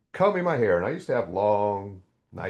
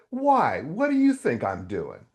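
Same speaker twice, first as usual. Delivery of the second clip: sarcastic; 4 semitones higher, slower than usual. Retold or imitated. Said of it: "I'm getting sarcastic".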